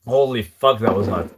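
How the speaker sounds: gasping at scalding coffee; hot coffee in mouth. Real, not acted. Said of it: "Freaking burned my tongue".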